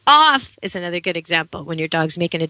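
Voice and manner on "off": loud one-word order, high; dog owner guarding the Christmas turkey, loud command; firm command. Shown as a demonstration. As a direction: snap it at a dog diving for the turkey. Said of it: "You need one syllable".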